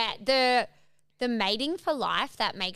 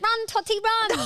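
high-pitched mock urging shout; imitated dad cheering; 11 semitones higher, 4 dB louder than usual. Dad urging his small kid to run, mock shout. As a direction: egg on a little kid, playfully imitated. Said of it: "he's always like".

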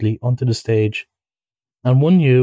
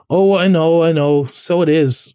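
evasive; 4 semitones higher, 4 dB louder than usual. A narrator's reading. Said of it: "replied the rat evasively".

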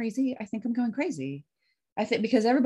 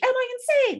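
anxious question; 5 dB louder than usual. Retold or imitated. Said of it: "talk with my doctor and be like".

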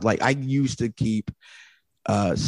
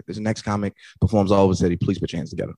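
host intro demo; faster than usual. Shown as a demonstration. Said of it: "That's all you have to say".

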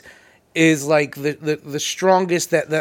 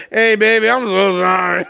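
mock mom; 4 dB louder than usual. Voicing the mom after drop.

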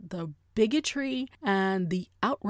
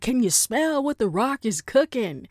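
lightly imitated wrestler catchphrase; hammed-up challenge, slightly raised pitch; The Rock; 3 semitones higher, 4 dB louder than usual. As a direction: call it out like a mock wrestling star. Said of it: "they think they're The Rock".

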